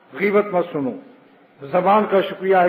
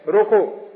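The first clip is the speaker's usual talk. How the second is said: روکو set off, then a full stop; روکو as a complete command before a pause; pause after the word; 2 semitones higher, much slower than usual. Shown as a demonstration. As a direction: say روکو and halt. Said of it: "اب وقف کر دو".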